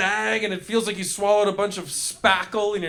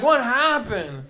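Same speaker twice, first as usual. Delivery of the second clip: slow, higher-pitched baffled question; mock bewilderment; 4 semitones higher, slower than usual. Eater surveying the mess after a coma, mock bewildered. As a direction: play dazed confusion, stretched out. Waking dazed from a chip coma.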